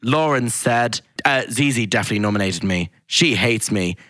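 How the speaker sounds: slow, measured announcer reading out quotes; camp, deliberate read-out of the evidence; drawn-out reality-show announcer; camp Big Brother voice. Retold or imitated. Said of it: "in his, like, voice. It's so camp".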